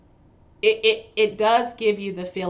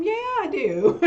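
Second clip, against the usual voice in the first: proud affection; 10 semitones higher than usual. Retold or imitated. Daughter answering staff about loving her mom, proud affection. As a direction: own up gleefully, pitched well up.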